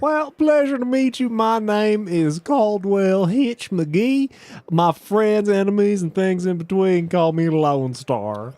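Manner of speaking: lightly voiced Western accent, a stranger politely introducing himself; Western cowboy accent. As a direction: lay on a relaxed Southern-Western accent. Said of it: "trouble not picking up your accent".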